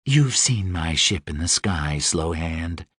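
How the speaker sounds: low, smooth and seductive; sultry Deva voice. Acted. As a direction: purr it like a dangerous winged queen. Deva character voice.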